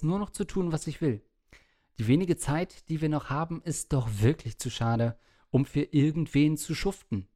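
measured, articulated read-aloud voice; reading listener letter aloud. Acted. Host reads a worried listener's doomsday letter to the co-host, in read-aloud style. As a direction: read it out as a written letter to the show.

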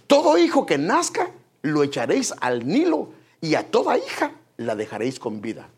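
Pharaoh's decree. Retold or imitated. Preacher reading Pharaoh's order to his people, proclaiming.

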